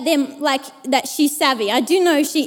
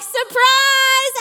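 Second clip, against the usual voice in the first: surprise shout; 8 semitones higher than usual. Retold or imitated. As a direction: burst out with it all together. Fifty friends jump out.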